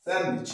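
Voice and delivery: স্যান্ডউইচ said as san-wich; no D at all in স্যান্ডউইচ; silent D. Shown as a demonstration. Teacher repeats the corrected word for students, স্যান্ডউইচ as san-wich. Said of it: "ডি এর উচ্চারণটা নেবো না".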